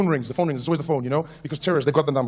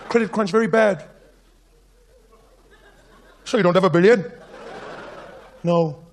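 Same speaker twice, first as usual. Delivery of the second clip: a courteous Indian villain making threats; Indian villain accent. Acted. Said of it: "Mastermind Rajesh".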